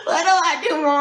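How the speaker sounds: high-pitched, hammed-up panicked plea; mock freaking out. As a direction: wail to mom in comic distress. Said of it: "crying, freaking out, calling my mom".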